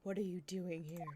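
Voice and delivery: soft, low, unvoiced smooth rival; hammed-up suave prosecutor; terrible smooth voice. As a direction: purr it in a bad smooth voice. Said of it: "just do this terrible smooth voice".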